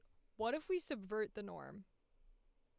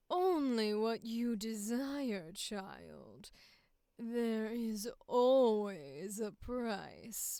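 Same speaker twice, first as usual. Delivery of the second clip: final sultry take; much slower than usual.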